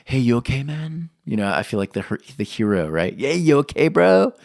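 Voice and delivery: cool-guy check-in. Retold or imitated. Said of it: "I was like".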